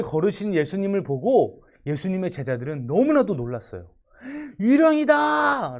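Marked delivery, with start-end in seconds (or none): 4.6-5.8 high, slow, terrified cry of ghost; frightened shout. Acted. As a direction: shout it like you've seen a ghost. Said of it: "라고 외쳤던 거죠". (겁에 질린 외침)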